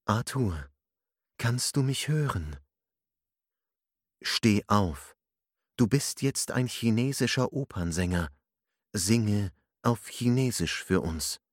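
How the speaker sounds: a touch of a hypnotist's calm command; steady trance-inducing instructions; deep hypnotic voice. A narrator's reading. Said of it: "sprach mit tiefer, hypnotischer Stimme".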